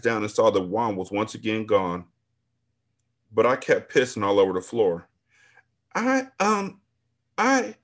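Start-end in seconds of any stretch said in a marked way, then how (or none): 5.9-7.8 high, loud, slow panicked scream. A narrator's reading. Old woman caught by staff, flustered scream. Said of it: "I screamed".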